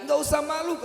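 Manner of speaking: high, loud coaxing voice; Musa reassuring. Acted. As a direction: coax her gently to speak.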